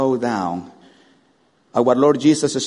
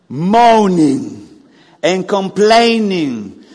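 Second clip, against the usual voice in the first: drawn-out mock moaning, louder; 5 semitones higher, 8 dB louder, much slower than usual. Preacher mocking the grumbling people, drawn-out moan.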